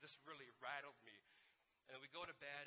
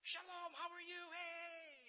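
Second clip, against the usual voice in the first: loud, high, exuberant greeting; hammed-up happy tour guide shout; all happy; 7 dB louder, slower than usual. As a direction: holler hello with overflowing cheer. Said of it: "he's all happy".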